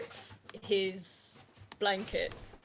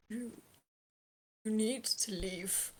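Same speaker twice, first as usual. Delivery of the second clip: slow, hushed whisper; very quiet voice. Acted. Frightened man telling intruders to leave, very quiet voice. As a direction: barely get the words out, halting. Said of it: "you hear a very quiet voice".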